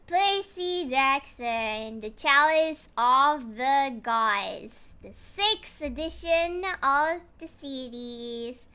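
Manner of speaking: drawn-out formal announcement of the title; presenting the book to the stream at a slow pace; slow title reading. Acted. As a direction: read the title slowly, with ceremony.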